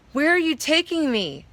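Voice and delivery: high, frightened question; terrified, clinging on. A narrator's reading. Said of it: "Terrified of falling".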